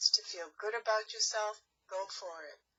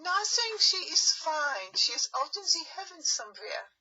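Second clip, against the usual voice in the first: panicked denial; 7 semitones higher, 5 dB louder than usual. Acted. Wolf panics, accused of murder.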